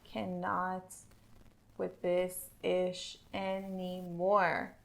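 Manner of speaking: slow, drawn-out diva voice. Retold or imitated. Friend imitating a fed-up diva, slow drawn-out sass. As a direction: drag every word out like a fed-up diva. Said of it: "Out comes the diva".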